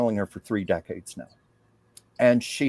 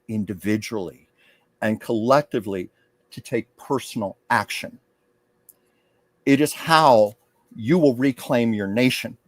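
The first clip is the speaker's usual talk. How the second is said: channeled public speech. Acted. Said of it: "she went into public mode".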